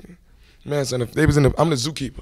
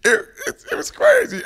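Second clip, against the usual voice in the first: excited shout. Real, not acted. Hyped about recording with a rapper.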